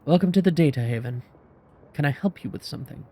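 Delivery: put-on clipped heavy German accent; curt German vendor greeting a customer, clipped and accented. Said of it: "She speaks in a clipped, heavy, accented German".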